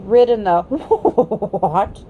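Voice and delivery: the words half-neighed like a horse; slow, horsey neigh through the words. A narrator's reading. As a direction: let a horse's whinny break through, very slow. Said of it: "it came out in sort of a neigh".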